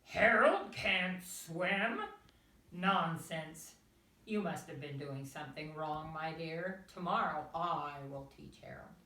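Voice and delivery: loud blustering father duck; roaring father duck. A narrator's reading. Mister Duck hearing the news, loud roar. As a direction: boom out the disbelief.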